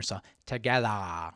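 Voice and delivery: "together" slowly, mouth opened a finger wide. Shown as a demonstration. Coach demonstrating the open-mouth "together". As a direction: exaggerate the jaw on "together". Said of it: "words such as together".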